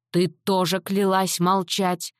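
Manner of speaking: usual speaking voice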